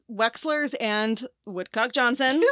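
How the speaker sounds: slow, fighting back a laugh; trying not to crack up; stifled giggles. Real, not acted. Holding in laugh at name.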